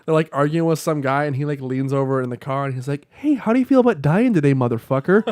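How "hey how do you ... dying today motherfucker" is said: mock sweet threat, higher; kindest voice. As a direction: ask it like the nicest friend, a hint of menace. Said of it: "the kindest voice".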